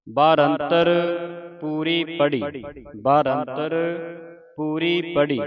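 ਬਾਰੰਤਰ rising, pause, ਪੂਰੀ ਪੜੀ falling; phrased in two parts. Shown as a demonstration. Teacher modelling for students, ਬਾਰੰਤਰ held apart from ਪੂਰੀ ਪੜੀ. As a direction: lift ਬਾਰੰਤਰ, break, then settle ਪੂਰੀ ਪੜੀ. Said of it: "ਇਸ ਤਰ੍ਹਾਂ ਉਚਾਰਨ ਕਰਨਾ ਹੈ".

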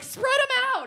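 high quick command; friend's order. Retold or imitated. Friend directing cleanup, high urgent command. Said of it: "she's like".

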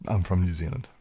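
tentative New Zealand accent. Shown as a demonstration. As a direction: try the line as a New Zealander. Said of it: "Can I do a New Zealand accent".

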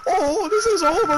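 high, ringing announcer call; excited announcer. Acted. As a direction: declare it over like a fight MC. Announcer calls the end.

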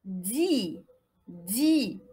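"Di" low, with a long i; syllable demonstration. Shown as a demonstration. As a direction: model "Di" as one drawn-out syllable. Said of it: "Ça donne di".

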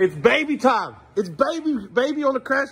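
put-on high playful baby voice; high cutesy voice; baby talk. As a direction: coo at the toddler.

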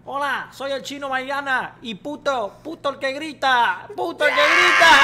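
rowdy shout. Acted. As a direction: build to a loud shout. Rowdy chant as chino Maidana.

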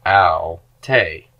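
Ow, te with no h and stress on the last syllable; ow-TAY, clean onset and the weight at the end; smooth breathing demo. Shown as a demonstration. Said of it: "but on the second one".

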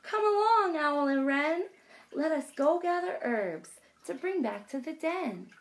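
high squawk then bossy call; raven calling. Acted. Raven calling Owl and Wren to fetch herbs, squawking. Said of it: "Raven says".

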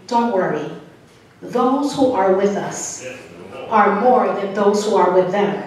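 unbothered, settling a panicked servant; cool and calm. Retold or imitated. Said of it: "cool as ever".

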